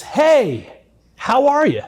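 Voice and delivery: high, lilting, carefree hello; mock calm greeting. Abuser casually greets the victim who burst in, mock calm. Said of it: "calmly as can be".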